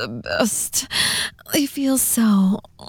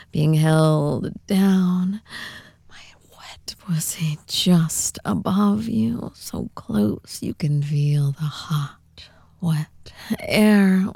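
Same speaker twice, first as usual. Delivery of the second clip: whispering. Acted. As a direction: whisper close to the mic. Whispered roleplay throughout.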